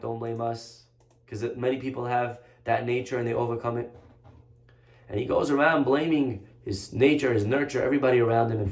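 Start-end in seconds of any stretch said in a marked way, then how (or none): 0.0-3.9 soft, level reply after an outburst; retold calm rebuff. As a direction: answer quietly and firmly, no heat.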